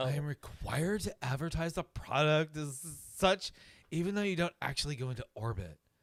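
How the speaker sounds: soft, hushed, low-key, whiny grumbling voice. Reading a comedic ad script aloud and following its cue: soft complaining voice. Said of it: "Soft, complaining voice".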